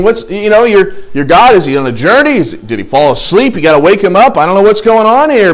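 acted taunt, rising to a loud finish; mocking. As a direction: needle them with sarcastic mock concern. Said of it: "he's mocking at them".

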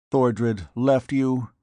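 hoarse, slow and strained; queer hoarse voice. A narrator's reading. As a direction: rasp it out slowly. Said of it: "in a queer, hoarse voice".

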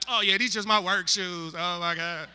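quiet coy mock.

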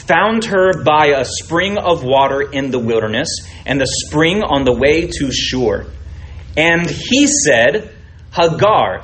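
slow, weighty reading of the angel's words; scripture reading. Acted. Preacher reading the angel's words to Hagar, slow and weighty. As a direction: let each phrase land, unhurried. Reads Genesis passage aloud.

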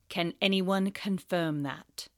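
sneering teacher; cold Snape voice. Acted.

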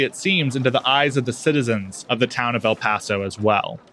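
usual speaking voice

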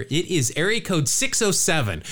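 area code run together, "six oh seven" in one go; rattled off. Real, not acted. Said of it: "I'll rattle it off here".

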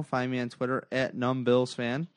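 words pushed out through a burp. Real, not acted. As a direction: talk right through a burp. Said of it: "Excuse me, that's a burp".

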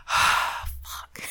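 breathy whispered dismay; whispered curse. Retold or imitated. The heroes hear the prisoners escaped, whispered dismay. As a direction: breathe it out, deflated.

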